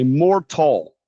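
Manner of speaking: careful wrong version; slow wrong example. Shown as a demonstration. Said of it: "If you make a mistake and, for example, say".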